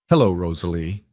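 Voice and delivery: put-on calm, cultured, light Eastern European accent; a faint Eastern European lilt, cool and calm. A narrator's reading. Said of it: "cultured, calm, with the faint trace of an Eastern European accent".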